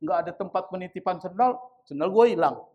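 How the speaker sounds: fast, petulant complaint; grumbling worshipper. Retold or imitated. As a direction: rattle it off, blaming someone else. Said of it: "Salahin dia".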